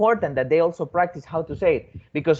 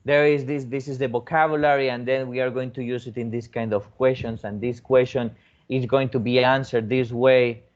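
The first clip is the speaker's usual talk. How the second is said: boring teacher; 3 semitones lower than usual. Retold or imitated. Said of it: "in a boring way".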